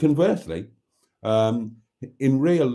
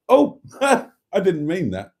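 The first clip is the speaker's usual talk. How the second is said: laughing; 8 semitones higher, 5 dB louder, slower than usual. Real, not acted. Laughing at an accidental pun.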